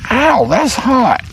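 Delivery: yelping at the hot tater; sharp high ow from heat; burnt fingertips. Real, not acted. Grabbing the hot potato.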